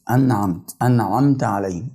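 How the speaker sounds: "أنعمت" as an-'amta, noon lightly sounded; "أنعمت" with a still noon before the ayn; lightly clear noon. Shown as a demonstration. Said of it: "يعني بظهرها إظهار خفيف".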